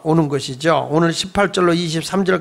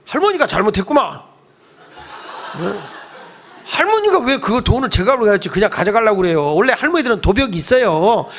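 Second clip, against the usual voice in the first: rude, accusing; 2 semitones higher than usual. Pretend. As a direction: play the heartless bystander, half-joking. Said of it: "이랬을 것 같아, 내가".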